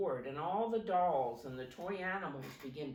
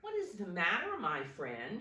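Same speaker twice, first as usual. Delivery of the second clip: kindly; 2 semitones higher than usual. Acted. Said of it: "she asked kindly".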